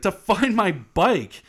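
high, loud, drawn-out declaration; mock determined declaration. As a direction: slowly proclaim it, hammed up. Retold determined declaration about bike.

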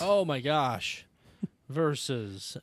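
drawn-out mock announcer "Verses"; imitating announcer. Shown as a demonstration. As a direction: say "Verses" like a hype host. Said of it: "Isn't that how I do it? That's the exact tone".

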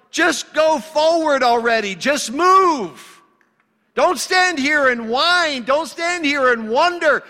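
high, loud, exasperated command; impatient God. Retold or imitated. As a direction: bellow it like an impatient God telling them to move. God's impatient command retold.

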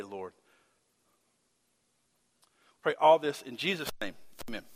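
soft, unhurried pastor's prayer; public prayer. Real, not acted. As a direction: pray earnestly, pausing between phrases. Leads a prayer.

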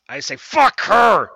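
high, loud gleeful snarl; gleeful shout. Acted. Witch to the party, a high gleeful shout. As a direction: burst out with wicked glee.

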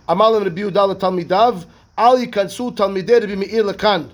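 fast, run-together study-hall recitation; rapid Gemara reading. Acted. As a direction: rattle the Aramaic text off quickly. Reads Gemara text rapidly.

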